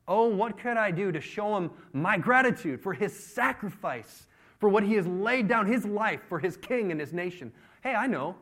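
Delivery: loud, high, theatrical pleading; showy mock lament. David making a show of honoring Uriah, hammed-up lament. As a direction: declaim it with hammed-up gratitude.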